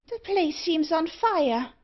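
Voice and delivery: high, slow dwarf voice; crying dwarf. A narrator's reading. Dwarf sees smoke in the passage, crying out high. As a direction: call out high as the little dwarf. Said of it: "cried the dwarf".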